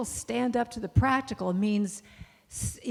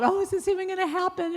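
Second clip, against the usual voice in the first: her voice leaps higher on a worried question; doubtful self-questioning; 10 semitones higher, faster than usual. Retold or imitated. A woman torn over her affirmation, voicing doubt in a higher worried voice. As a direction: ask it like you suddenly doubt it all.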